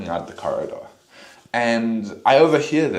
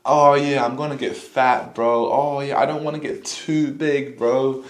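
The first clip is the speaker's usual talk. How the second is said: higher, whiny mock of a scared lifter; hammed-up imitation of a whiny skinny guy; mocking scared bulker; 5 semitones higher than usual. Mocking skinny guys afraid to bulk, whiny imitation. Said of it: "they're like".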